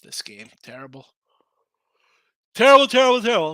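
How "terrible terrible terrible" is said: exasperated groan. Real, not acted. Bettor groaning at the live game, loud exasperation. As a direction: moan it like your bet is dying.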